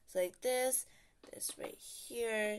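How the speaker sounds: soft whispered aside; hushed placing whisper. Real, not acted. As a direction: murmur it under your breath, slowly. Whispered aside while building.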